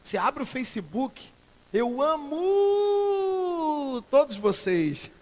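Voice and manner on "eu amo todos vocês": very slow, higher, drawn-out sugary "amo"; mock gushing. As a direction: parody a fake Facebook declaration of love. Mocking fake Facebook affection.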